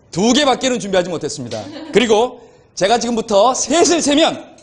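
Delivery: persuasive salesman pitch; hard sell ad. Pretend. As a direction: sell it like a TV host. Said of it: "지금부터 한번 팔아보겠습니다".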